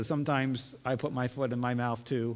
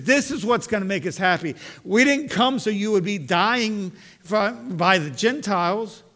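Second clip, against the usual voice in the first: higher and louder insistent argument; protesting Peter; 4 semitones higher, 5 dB louder than usual. Acted. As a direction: press Jesus to take over as king.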